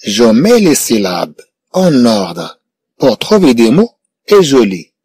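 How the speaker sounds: slow, measured teacher reading; slow dictation. Shown as a demonstration. Teacher reading the instruction slowly to pupils, measured. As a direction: read each word slowly for the class. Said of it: "teacher models the instruction slowly".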